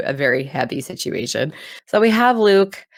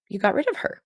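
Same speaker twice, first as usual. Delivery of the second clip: high, amazed gasp of admiration; dazzled, can't believe it; awestruck; 12 semitones higher, 4 dB quieter than usual. Retold or imitated. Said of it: "truly, like, awestruck".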